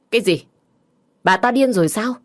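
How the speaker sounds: high, loud disbelief; shocked outburst. Acted. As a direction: gasp it out in shock. Mother shocked by news. (bà mẹ sửng sốt kêu lên)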